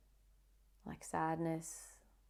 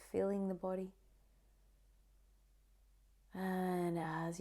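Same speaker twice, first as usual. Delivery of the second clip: guided meditation. Acted. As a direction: ease the listener into calm, one phrase at a time.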